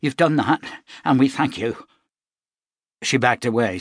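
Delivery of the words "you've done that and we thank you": hard, cold thanks. Acted. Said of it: "her eyes hard".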